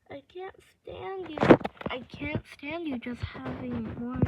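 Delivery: lightly voiced obsessive captor; understated sweet-talking villain; possessive captor Raph.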